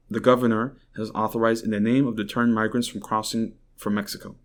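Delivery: reading an AP article aloud, evenly paced; steady, informative news read. Real, not acted. Host reads an AP report to his viewers, even news-read tone. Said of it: "reading from the A P".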